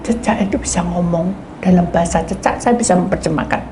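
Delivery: usual speaking voice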